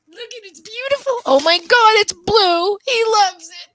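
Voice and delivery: high, building to loud delight; gushing excitement. Acted. Owner gushes over puppy's blue toy, thrilled. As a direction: gush over the new toy.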